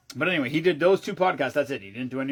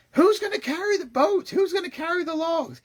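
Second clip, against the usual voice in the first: retold scream at a gym partner mid-workout; imitated screaming; 14 semitones higher than usual. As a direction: bellow it across the whole gym. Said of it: "Goggins starts screaming".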